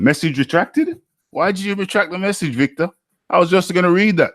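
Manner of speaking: high, quick indignant surprise; mock outrage, high and quick; surprised protest. Real, not acted. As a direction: caught out, why'd you delete it. Message deleted before reading.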